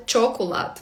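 "чоколад" starting with a hard ch sound; beginners' mistake. Shown as a demonstration. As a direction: say "чоколад" with ch instead of sh. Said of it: "помилка багатьох початківців читати".

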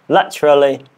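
drilling a learner's British "laterally"; British accent attempt. Shown as a demonstration. Learner practising number one, British accent attempt. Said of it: "I am learning British accent".

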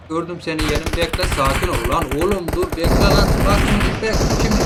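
urgent loud wait; loud call. Real, not acted. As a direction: shout at him to stop and wait. Telling enemy to wait.

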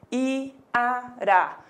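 "iara" broken into its syllables; split into syllables. Shown as a demonstration. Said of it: "separação".

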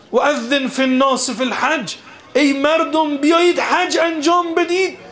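high, calling-out preacher's voice; retold proclamation. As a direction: call the people as if from afar, imitating. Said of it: "فریاد زد". (بازگوییِ ندا با صدای بلند و زیر)

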